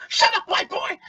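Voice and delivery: high, loud mock nasal yell; piercing nasal imitation. Host imitating the eminently aggressive heckler, piercing nasal yell. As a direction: mimic a stereotypically white man yelling, piercing and nasal. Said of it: "piercing and nasally and, like, stereotypically white".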